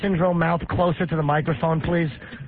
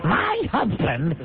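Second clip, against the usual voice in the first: imitating Marion. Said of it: "She talks like Giuliani if he were a fat girl".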